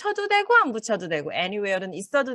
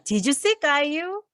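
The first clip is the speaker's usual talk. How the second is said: "Did you see 까유" drawn out slowly with a rise; slow, careful demo; slow model sentence; 6 semitones higher, much slower than usual. Shown as a demonstration. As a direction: contrast it with the present perfect. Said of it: "이 두 문장의 차이가 뭘까".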